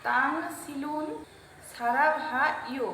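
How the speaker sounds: slow, careful Korean "তাং সিলুন সারা ভা ইয়ো"; careful foreign-sounding Korean phrase; Korean pronunciation. Shown as a demonstration. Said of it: "Korean ভাষায় হচ্ছে".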